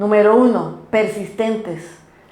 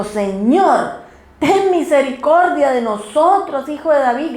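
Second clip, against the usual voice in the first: higher-pitched retold plea; mild imitated cry; 3 semitones higher than usual. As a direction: call out insistently, only half shouting. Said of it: "gritando y gritando".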